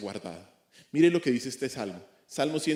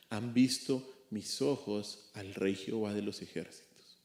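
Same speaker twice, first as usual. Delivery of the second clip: solemn scripture reading. Shown as a demonstration. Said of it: "póngale mucha atención a las palabras del profeta".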